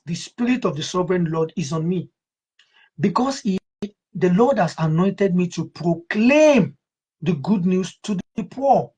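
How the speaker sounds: measured, solemn Bible reading; scripture reading. Acted. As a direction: read the verse with reverence. Reads scripture aloud.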